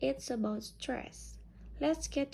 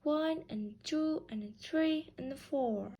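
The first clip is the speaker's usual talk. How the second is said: steady beat on One, two, three, four; rhythmic count. Shown as a demonstration. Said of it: "Say it again".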